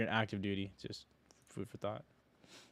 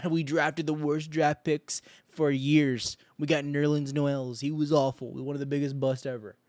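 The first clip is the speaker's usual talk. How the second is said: mock Bam voice; 3 semitones higher than usual. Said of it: "he's like".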